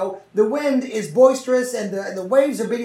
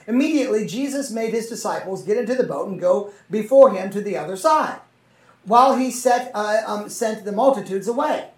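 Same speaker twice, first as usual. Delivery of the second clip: measured, earnest Bible reading voice; scripture reading; 4 dB louder than usual. Acted. Preacher reading Matthew aloud to his listeners, earnest and measured. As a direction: read the gospel to the congregation.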